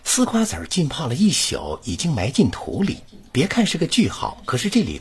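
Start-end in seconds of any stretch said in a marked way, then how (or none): 0.0-3.0 connected recital of two close sentences; model reading. Shown as a demonstration. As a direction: keep both sentences flowing as one. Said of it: "你看". (连贯示范朗读)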